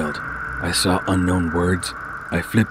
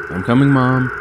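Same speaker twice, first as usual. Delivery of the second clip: put-on higher boy calling back; young boy voice; 6 semitones higher, 7 dB louder than usual. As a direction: answer like a kid. Boy answers mom.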